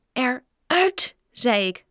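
high, forceful canteen-lady yell; shouted command. A narrator's reading. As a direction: order them out. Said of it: "schreeuwde mevrouw Klodder". (geschreeuwd bevel)

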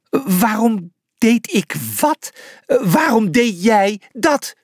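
slow, high disbelief; incredulous sputter. A narrator's reading. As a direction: repeat it haltingly, aghast. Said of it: "sputterde Julius ongelovig".

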